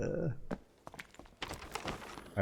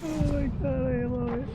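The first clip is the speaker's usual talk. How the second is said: squealing with glee, much higher; delighted squeal. Real, not acted. Streamer thrilled watching the enemy team fail, high squeal. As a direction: shriek it like you can't believe your luck.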